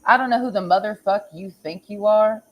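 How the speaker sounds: ordinary talk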